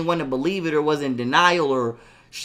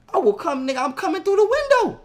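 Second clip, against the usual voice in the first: retold threat; 11 semitones higher, faster than usual.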